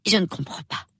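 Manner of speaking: high-pitched puzzlement; perplexed. A narrator's reading. Young woman puzzles over where it happened, perplexed. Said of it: "elle ne put dissimuler sa perplexité".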